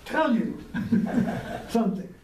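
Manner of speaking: retelling her protest while laughing; laughing through it. Retold or imitated. Teacher retells wife's protest, laughing through it. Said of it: "And she says".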